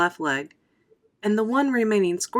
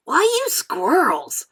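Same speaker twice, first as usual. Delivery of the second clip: slow, higher put-on boy voice; boy's question; 6 semitones higher, 3 dB louder than usual. A narrator's reading. Mike questions Wonka in a slow boyish voice. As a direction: ask it as a bored boy. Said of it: "Mike T V asked".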